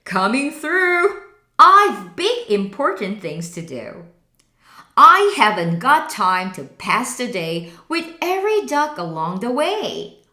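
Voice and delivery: loud, impatient and self-important; bossy dump truck. Acted. Dump truck telling animals to get out of the way. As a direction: push past everyone with a boast.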